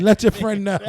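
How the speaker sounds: quoting through laughter; retold quote, amused. Retelling what Nina said during the show, laughing imitation. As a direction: imitate her while cracking up. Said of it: "Nina said, she's like".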